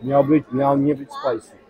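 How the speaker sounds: speaking between bites; talking while chewing. Real, not acted. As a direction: mouth partly full of food. Seen 0: Speaks right after a bite at -1, jaw moving, wrap in hand.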